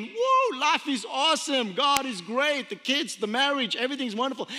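a high whoop that settles into mild upbeat cheer; mock delight, whoop then easy cheer; joyful whoop. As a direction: play the carefree happy believer. Acting out life's happy season.

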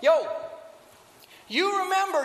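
Paul calling the captain out, irritated and loud; angry Paul. Retold or imitated. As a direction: confront him, a bit fed up. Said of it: "I just imagine he's a little bit angry".

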